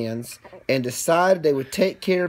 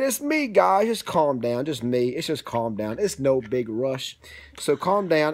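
lower, slower, soothing; calming voice; 4 semitones lower than usual. Acted. Green hat man calming the scared sneetches, low and soothing. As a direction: settle them down gently.

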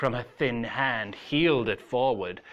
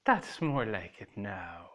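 warmly; 4 semitones lower, 6 dB quieter than usual. A narrator's reading. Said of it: "she said warmly".

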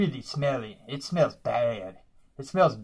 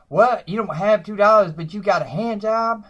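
outraged surprise; 7 semitones higher, 5 dB louder than usual. Retold or imitated. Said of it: "And I'm like".

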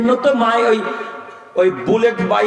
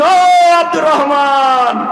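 voice of God; 5 semitones higher, 4 dB louder, much slower than usual. Acted. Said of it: "আপনাকে আল্লাহ তাআলা বলবেন".

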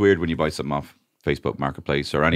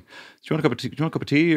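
insincere offer tone; 9 semitones higher, much faster than usual. Shown as a demonstration. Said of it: "with a kind of tone that is like".

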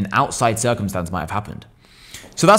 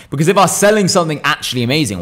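energetic; 4 semitones higher, 4 dB louder than usual. Shown as a demonstration. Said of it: "why wouldn't I talk like this".

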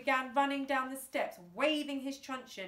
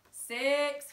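loud count; 5 semitones higher, 8 dB louder than usual. A narrator's reading.

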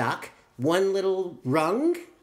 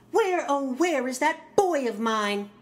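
calling mom; 8 semitones higher than usual. Acted. Mom calling for her son.

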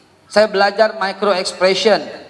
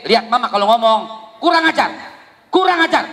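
selfish mother scolding; 2 semitones higher than usual. Acted. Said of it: "Ibu yang egois". (ibu egois memarahi anak dengan nada tinggi)

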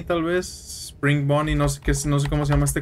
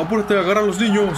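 scared woman; 6 semitones higher than usual. Acted. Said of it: "Mujer asustada".

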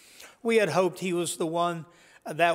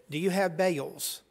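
light Southern accent imitation; precious Southern accent. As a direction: ask it with a sweet Southern twang on bales. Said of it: "precious southern accent".

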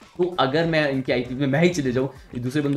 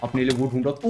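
ordinary talk, nothing marked

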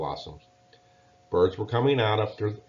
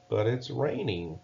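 protesting; 2 semitones higher than usual. Acted. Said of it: "protested brother".

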